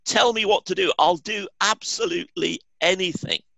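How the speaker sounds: high, eager pleading; desperate eagerness. A narrator's reading. Man clinging to the branch pleads eagerly, high pitched. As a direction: promise anything, frantic. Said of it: "said the man".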